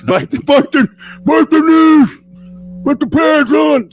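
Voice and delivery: loud high dopey shout; big guy voice. Acted. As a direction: yell it like a cartoon meathead. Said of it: "we just have to do a big guy voice".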